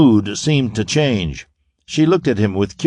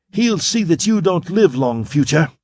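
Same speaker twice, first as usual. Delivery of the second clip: murderous cry; 6 semitones higher than usual. A narrator's reading. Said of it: "she cried murderously".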